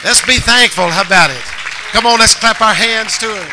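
loud, rising preacher's call; rally the congregation into applause; rousing exhortation. Real, not acted. Preacher urges the church to be thankful and clap, rousing shout.

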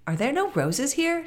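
put-on high, eager girl's question; a little girl looking around anxiously; Gerda asking. A narrator's reading. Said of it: "she asked".

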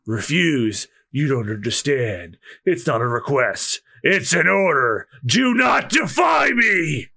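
threaten, then explode; menacing pirate order. Acted. Krieg ordering the chefs, building to a shout.

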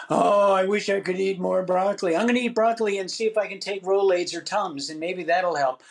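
lightly hammed-up craving; mock wistful whine. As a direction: play a foolish glutton bargaining, light mock. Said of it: "You don't say".

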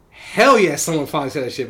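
loud cheering fan; excited cheer. Retold or imitated. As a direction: whoop it up like a fan. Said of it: "the other half would be like".

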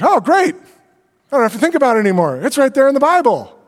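mock relief. Pastor pretending the Bible picked his church, sarcastic relief. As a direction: play it as if all your problems are solved.

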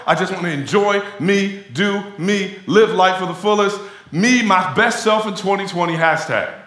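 lampoon the self-indulgent believer, brash and fast; hammed-up me-first partier; mock pleasure seeker.

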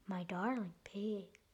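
soft, endearing reply; softly acted storybook endearment; soothing. A narrator's reading. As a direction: soothe the caller gently. Riding Hood soothes pig.

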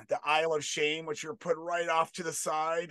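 ordinary talk

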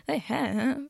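a break in the voice on the vowel; voice cracking. Real, not acted. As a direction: voice cracks mid-word. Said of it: "my voice just cracked".

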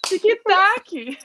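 TikTok as "tchikitáki", added vowels; mock Brazilian accent. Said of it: "brasileiro deve falar".

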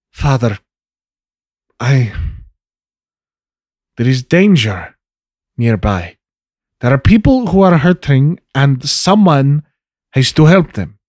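hesitant start, then a firmer appeal; lightly voiced daughter urging her father to act; pleading daughter. Plays Trinity pleading with father.

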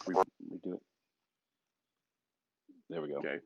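short check through echo. Real, not acted. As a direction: echo trailing behind. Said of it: "I'm still echoing".

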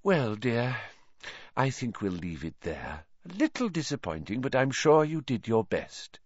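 a touch of a sigh, let down; lightly voiced disappointed seer. Trelawney dismissing Harry, mild sighing letdown. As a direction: soften into gentle disappointment. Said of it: "Professor Trelawney sighed".

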